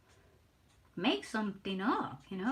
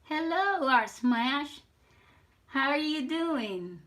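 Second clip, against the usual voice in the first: excited greeting; 5 semitones higher, 6 dB louder, slower than usual. Real, not acted. Greeting stream chat loudly.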